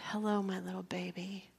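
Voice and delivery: soft unvoiced greeting to a newborn; tender whisper. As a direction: whisper gently to the baby. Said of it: "right when I said".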